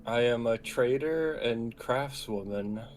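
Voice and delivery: words pushed through clenched teeth; through gritted teeth. Acted. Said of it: "Callie says through gritted teeth".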